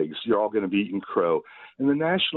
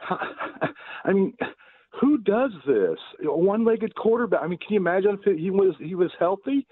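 laughing disbelief; 8 semitones higher than usual. Real, not acted. Caller laughing at the rival's injuries.

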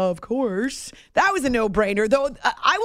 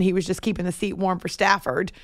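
ordinary talk, nothing marked

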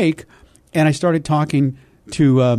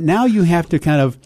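normal talking voice

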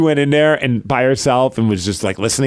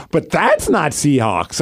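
slow, drawn-out objection; mock child refusing to budge; imitating stubborn daughter; slower than usual. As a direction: stretch out the kid's protest. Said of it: "She's like".

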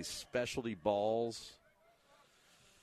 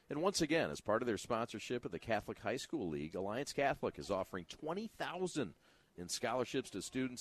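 booming prize announcer. Acted. Reads sponsor ad.

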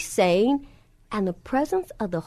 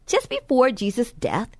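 stretched, fervent preaching with drawn-out words; rising sermon; 3 semitones higher than usual. Acted. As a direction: preach it, leaning into each phrase.

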